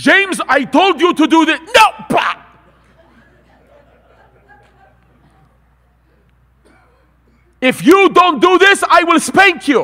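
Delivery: put-on Middle Eastern accent. Speaker imitates his father threatening him as a child; heavy Middle Eastern accent. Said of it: "in his heavy Middle Eastern accent".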